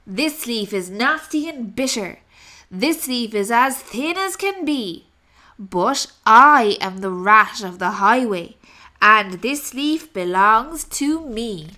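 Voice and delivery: booming, demanding highway robber rat; greedy rat roaring at the rabbit for cakes; loud bullying rat. Acted. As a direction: bellow it like a greedy bandit. Rat continues speaking.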